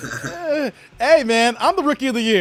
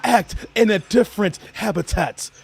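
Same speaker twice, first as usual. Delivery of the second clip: Australian documentary narrator. Pretend. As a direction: narrate like a nature film host in the bush. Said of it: "Australian filming animals in heat".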